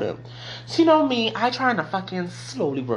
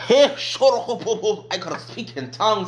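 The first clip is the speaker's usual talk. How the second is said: slow laughing line; joyful laughing aside; 6 semitones higher, much slower than usual. Real, not acted. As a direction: laugh through it happily.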